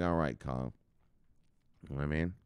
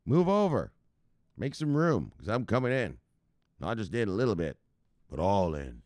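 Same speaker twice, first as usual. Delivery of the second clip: imitating her. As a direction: act out her announcing herself. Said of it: "That's how she said it".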